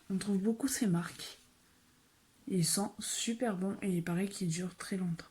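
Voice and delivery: airy ASMR-style whisper over the products. Acted. Whispering to viewers about long-lasting perfumes. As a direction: hush it like sharing a beauty secret.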